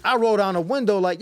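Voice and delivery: usual speaking voice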